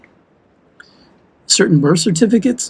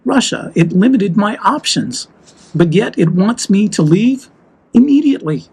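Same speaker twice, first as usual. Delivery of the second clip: heated, rising pitch on key words; worked up; 3 semitones higher than usual. Real, not acted. Frustrated vlogger venting to viewers, heated and rising. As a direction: let the frustration push the words up. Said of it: "I'm a little worked up".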